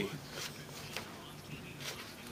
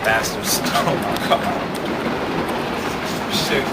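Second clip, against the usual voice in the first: slow bitter whisper; whispered curse; 7 semitones lower, 3 dB quieter, slower than usual. Real, not acted. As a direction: hiss it under your breath, slowly. Repeats complaint about stolen car.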